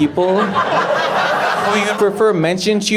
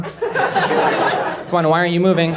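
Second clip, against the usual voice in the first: squeaky urging; 2 semitones higher than usual. Retold or imitated. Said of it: "And she's like".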